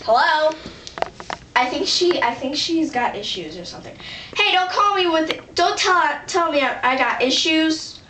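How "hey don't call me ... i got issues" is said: indignant retort. Acted. Bristles at being said to have issues.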